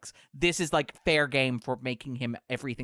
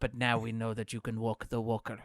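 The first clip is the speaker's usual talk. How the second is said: terrible impersonation. Retold or imitated. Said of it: "that's a terrible impersonation".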